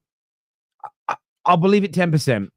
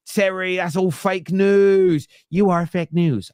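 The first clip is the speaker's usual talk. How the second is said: attempted Geordie accent; 6 semitones higher, slower than usual. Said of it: "I can't do the accent".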